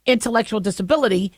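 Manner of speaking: slight lisp on the s sounds; s sounds slurring toward a lisp. Real, not acted.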